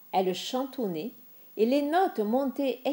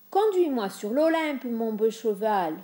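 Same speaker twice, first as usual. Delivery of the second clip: pleading; 2 semitones higher than usual. Acted. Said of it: "suppliait-il".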